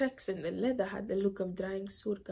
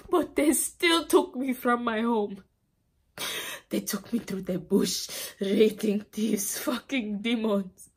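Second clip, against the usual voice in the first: raised voice, bitter outrage; angry accusation; 6 dB louder than usual. Acted. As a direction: spit out the accusation loudly. Survivor rages at her captors.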